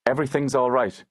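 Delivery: brisk, dismissive steward voice; distracted steward. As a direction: wave the boy off quickly. Steward brushes off worried boy.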